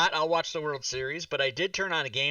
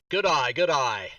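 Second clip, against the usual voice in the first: Australian accent demo; 4 dB louder than usual. Shown as a demonstration. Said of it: "this is how I learned to do an Australian accent".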